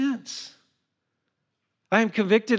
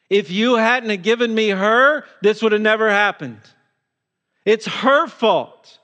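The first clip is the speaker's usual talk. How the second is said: mild whiny blame, as Adam pointing at his wife; Adam shifting the guilt, lightly acted and a bit indignant; blaming tone; 3 semitones higher than usual. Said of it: "And now his tone is".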